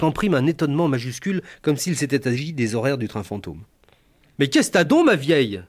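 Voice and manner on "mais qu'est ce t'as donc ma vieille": puzzled country voice. Retold or imitated. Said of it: "insistait-elle".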